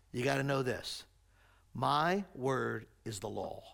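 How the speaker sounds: low, measured locker-room ultimatum; stern coach. Acted. Acted coach lays down law to players.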